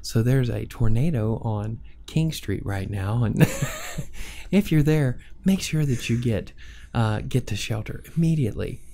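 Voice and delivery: easy listening DJ, unruffled; calm DJ announcement. Shown as a demonstration. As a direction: stay calm about the tornado. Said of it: "you gotta stay calm".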